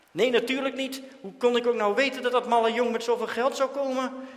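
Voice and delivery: loud, high resentful outburst; bitter outburst. A narrator's reading. Dirk ranting to Jan about Daantje's money, loud. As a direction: spit out the jealousy.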